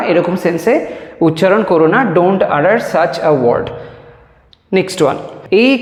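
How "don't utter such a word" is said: slow dictation. Shown as a demonstration. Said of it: "teacher models the full sentence".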